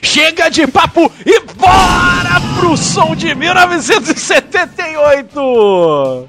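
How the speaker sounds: radio announcer. Acted. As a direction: call out the next track like a DJ. Announcing the song.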